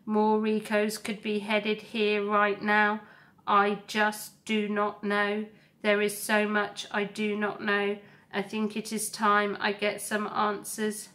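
steady, measured robot voice; calm robot voice. Acted. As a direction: speak like a gentle, resolute robot. Roz explains to her son.

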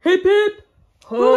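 rally the crowd, loud; hooray cheer. Acted. Leading cheers at coronation.

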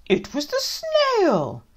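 high, slow, loud dad blaming the snail. Acted. Dad to child, shifting blame, hammed-up.

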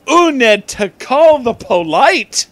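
loud, high, slow urging; hammed-up urgent plea. Student urging her teacher to call the police, loud and high. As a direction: plead with mock urgency.

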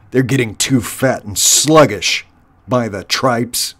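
scornful warlord dismissing his troops; contemptuous, callous boss voice; sneering. Acted. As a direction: sneer with rough impatience. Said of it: "Clooney sneered".

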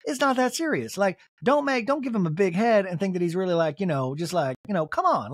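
lightly voiced Southern lady scolding; a hint of Southern accent, imitating; Mary. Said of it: "doing her as a Southern lady".

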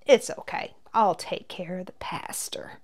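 sweet, hushed whispered reassurance; sweetly. Acted. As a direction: whisper it sweetly like a kind granny. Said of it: "smiling sweetly".

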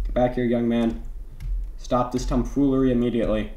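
a hint of a stern parent, quick at the end; mock stern parent. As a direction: lightly play a scolding parent. Chasing player, mock scolding.

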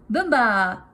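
loud joyful shout of the game's name; a kid yelling in play. A narrator's reading. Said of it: "shouted Flip".

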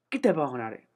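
shouted, pumped call to the ball; loud cheer. Real, not acted. Playing cricket, shouting the ball out of the park. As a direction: yell it like a home run.

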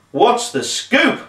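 high, slow, drawn-out dude voice; Doug. A narrator's reading. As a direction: beam it out like a laid-back dude. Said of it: "he beamed".

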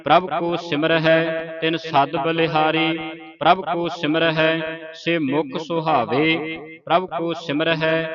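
measured, level-toned Gurbani recitation; sustained monotone chant for learners to follow; scripture recitation. Shown as a demonstration. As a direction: recite evenly, holding the line endings.

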